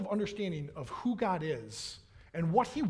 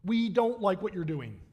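mock angry complaint; 2 semitones higher, 3 dB louder than usual. Thirsty Israelites complaining to God in the desert, mock angry. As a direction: complain to God as an aggrieved crowd. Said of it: "They're angry about the fact".

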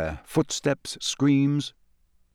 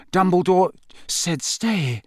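thick voice; 7 semitones higher than usual. Acted. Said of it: "said Harry thickly".

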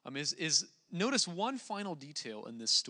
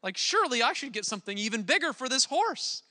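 loud, high indignant protest; the nobleman whines that he deserves more, much louder; an upset nobleman demands a bigger reward from the king; 10 semitones higher, 9 dB louder than usual. Acted. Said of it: "the nobleman gets all upset".

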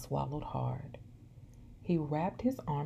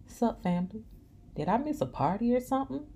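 excited; 8 semitones higher, 3 dB louder, faster than usual. Acted. Maurice bursts in cheerfully.

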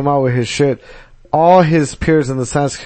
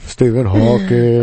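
slow robot voice; flat robotic Stephen Hawking voice; slower than usual. Pretend. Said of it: "you got the ro-, robot voice".

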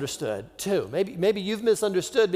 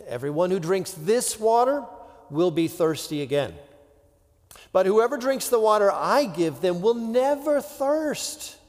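measured, solemn Bible reading; scripture reading; 3 semitones higher than usual. Acted. Reading the scripture passage aloud.

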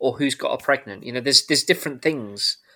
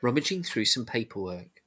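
ordinary delivery

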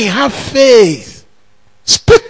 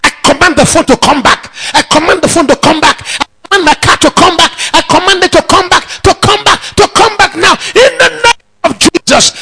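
fast, rising commands, higher toward the end; commanding declaration; 4 semitones higher, faster than usual. Shown as a demonstration. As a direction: order it back with mounting force. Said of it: "make declarations instead".

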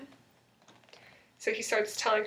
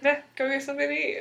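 offhand shrugging "Meh, go get something to eat", quick; dismissive; 3 semitones higher, faster than usual. Retold or imitated. Jeremy brushing off Elena's misery, dismissive. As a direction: toss it off like you couldn't care less. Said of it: "he didn't say it like that".

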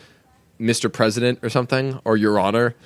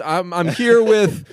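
abandoned impression; 8 semitones higher, 3 dB louder, slower than usual. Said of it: "go back to an American one".

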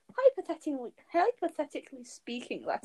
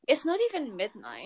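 whispering. Real, not acted. Joins in whispering late.

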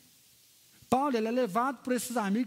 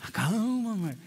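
firm commanding take; slower than usual. Shown as a demonstration. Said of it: "Assim, que voz é essa?".

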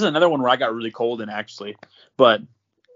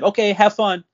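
higher-pitched imitation of a lady's goodbye; lightly mocked cheery send-off; breezy send-off; 8 semitones higher, 4 dB louder than usual. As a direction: toss off a carefree farewell in a raised pitch.

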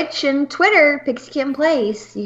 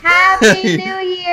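excited; 7 semitones higher, 4 dB louder, slower than usual. Real, not acted. Celebrating midnight.

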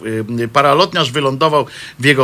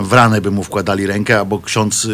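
ordinary delivery

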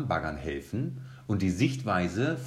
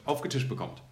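hyped teaser; 7 semitones higher, 5 dB louder than usual. Real, not acted. Teasing upcoming episode announcement.

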